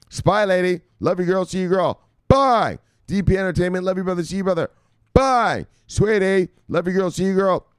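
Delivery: high, bright-call goodbyes to viewers; sing-song farewells. Real, not acted. Host bids departing viewers goodbye in high sing-song. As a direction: gush over each viewer leaving.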